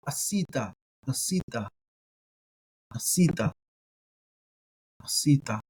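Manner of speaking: asita opened with a throaty catch; guttural ayin. Shown as a demonstration. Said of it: "I like to do the guttural here".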